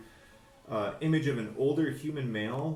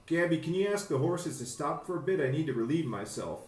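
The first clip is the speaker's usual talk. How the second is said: character voice; 6 semitones higher, faster than usual. Acted. Character asks to stop wagon.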